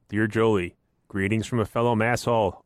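put-on, clumsy Boston accent; bad Boston accent. Co-host reads listener's letter to host, bad Boston accent. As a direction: read it in a hokey Boston accent. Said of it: "do a bad Boston accent".

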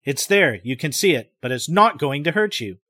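calm and firm. Acted. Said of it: "his voice very calm and firm".

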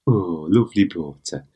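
teasing, put-on "Blaughter" with careful T; mock language tape. Co-host playing with the mispronunciation, mock-admiring "Blaughter". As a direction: savour "Blaughter" as one squashed word. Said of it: "you sound like a, um, uh, Duolingo tape".

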